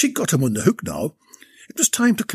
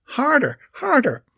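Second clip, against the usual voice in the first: put-on high Irish-accented call, urgent; Irish accent shout; 12 semitones higher than usual. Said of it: "shouted in her Irish accent".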